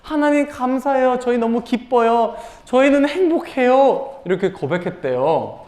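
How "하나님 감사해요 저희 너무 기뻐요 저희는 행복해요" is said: high-pitched, acted joy; happy thanks. Israelites thanking God for manna, high-voiced happy confession. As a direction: play delighted gratitude, drawing out the last phrase. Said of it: "너무 행복했어요".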